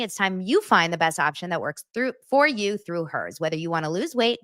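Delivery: upbeat sponsor read. Acted. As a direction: read the ad copy brightly. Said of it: "That's not in the ad read".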